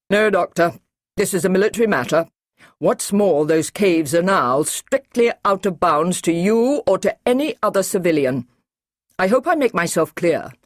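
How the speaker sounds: officer forbidding the doctor the caves; stern Brigadier. Acted. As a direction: lay down the law. Brigadier lays down orders.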